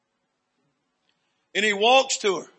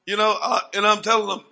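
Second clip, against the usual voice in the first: normal talking voice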